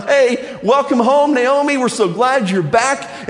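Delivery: high, bright mock welcome from the crowd; cheering villagers. Villagers greet returning Naomi with a high happy welcome. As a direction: call it out like the whole town greeting her. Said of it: "All the people are coming out going".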